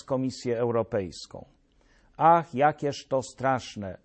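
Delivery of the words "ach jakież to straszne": slow, theatrical sigh of dismay; mock lament. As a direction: draw it out in feigned despair. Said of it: "zawołałem". (udawany, przeciągnięty lament)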